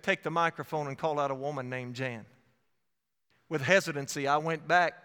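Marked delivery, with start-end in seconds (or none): 0.0-2.3 low, even instruction; quietly firm, lower repeat of the command; inner voice's command. Retold or imitated. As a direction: state the order calmly, pitched down. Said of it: "The voice said".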